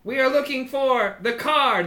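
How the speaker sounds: high commanding little leader; kobold boss. Acted. Kobold boss addresses his crowd, high proclamation. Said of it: "holds up his little arms and, and he says".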